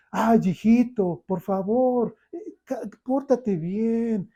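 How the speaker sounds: high, slow pleading mother voice; mock doting parent. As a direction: beg the child sweetly to behave. Mocks an indulgent parent.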